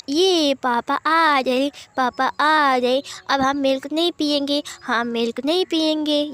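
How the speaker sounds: slow, drawn-out happy cheer; little kids shouting with joy; excited kids. Acted. Children running to papa, drawn-out and excited.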